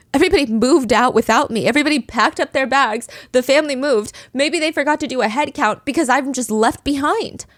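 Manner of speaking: mildly dramatized alarm at being left behind; alarmed realization. Acted. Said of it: "would come home from school and believe".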